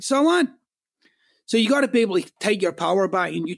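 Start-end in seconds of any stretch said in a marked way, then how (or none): 0.0-0.5 emphatic so what. Real, not acted. Speaker brushing off a listener's excuses, high and emphatic. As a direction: fling out "So what?" with a high scoff.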